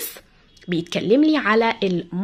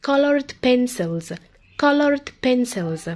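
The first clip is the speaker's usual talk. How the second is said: colored pencils said slowly and deliberately; slow drill; much slower than usual. Shown as a demonstration. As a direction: drag out colored pencils for the class. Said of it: "teacher repeats slowly".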